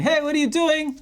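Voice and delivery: high-pitched, half-voiced mock shout. Someone shouting at the player from across the building, high mock yell. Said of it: "someone's shouting".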